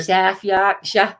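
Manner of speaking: "South Yorkshire" slowly, "South" as saf; careful Yorkshire. Shown as a demonstration. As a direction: spell out "South Yorkshire" in a slow Sheffield accent. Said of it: "Can't even say Yorkshire".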